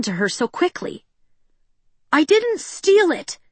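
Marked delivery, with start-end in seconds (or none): 2.1-3.4 high, slow desperate yell. A narrator's reading. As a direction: shout it up at them. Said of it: "she yelled".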